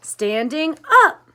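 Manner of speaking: high, loud, slow shout. A narrator's reading. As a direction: yell it back stubbornly. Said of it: "kept shouting and shouting".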